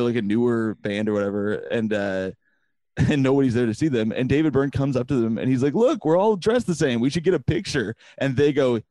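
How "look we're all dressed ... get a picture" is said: bright higher-pitched friendly offer; cheerful high voice. Retold or imitated. Imitating a singer, friendly.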